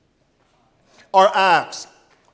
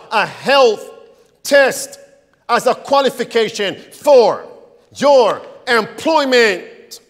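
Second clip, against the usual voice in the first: emphatic; 3 dB louder than usual. Real, not acted. Preacher builds to outrage.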